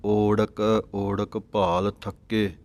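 ਓੜਕ slowly with a full open o. Shown as a demonstration. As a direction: sound a clear long o at the start of each ਓੜਕ. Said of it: "ਓੜਕ ਪਾਠ ਨੂੰ ਊੜਾ ਖੁੱਲ੍ਹਾ ਹੈ ਉੱਪਰੋਂ".

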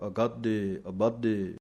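ਅਗਾਧੇ ਅਬਾਧੇ with a heavy aspirated ਧ. Shown as a demonstration. Teacher shows students the heavy ਧ sound. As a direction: weigh down the ਧ in ਅਗਾਧੇ. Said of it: "ਭਾਰਾ ਕਰਕੇ ਬੋਲਣਾ ਪਵੇਗਾ".

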